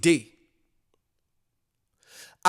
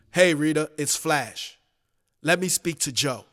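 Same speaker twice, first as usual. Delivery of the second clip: a slightly lower caller's voice; lightly voiced male caller; 4 semitones lower, 4 dB quieter than usual. Flash asking Rita for Joe on the phone, lightly voiced low caller. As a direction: play the caller low and understated.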